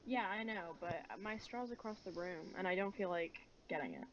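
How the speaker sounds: echoey, talking into a cup. Real, not acted. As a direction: speak with a cup over your mouth. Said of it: "Are you talking into your cup right now?".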